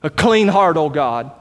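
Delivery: quiet prayer. Retold or imitated. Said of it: "just to pray".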